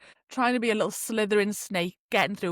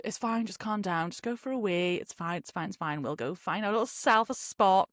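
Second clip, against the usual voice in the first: calming herself; 4 dB quieter than usual. Retold or imitated.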